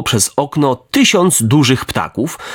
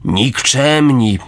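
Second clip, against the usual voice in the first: slow, drawn-out scornful word; mock indignation; much slower than usual. Fox pretending outrage at the robbers, very slow. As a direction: savour the fake outrage. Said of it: "powiedział lis".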